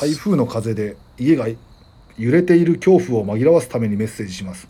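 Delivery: radio host reading a letter aloud; listener mail read-out. Real, not acted. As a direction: read the message out evenly and clearly. Reads listener's message. (お便りを読み上げる調子で)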